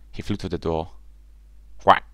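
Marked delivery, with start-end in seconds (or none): 1.8-2.0 one short quack; brief little duck call; duckling quack. A narrator's reading. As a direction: quack once at the door. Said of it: "said the ugly duckling".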